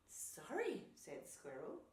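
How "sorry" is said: sheepish apology. A narrator's reading. Squirrel apologises to crying bear.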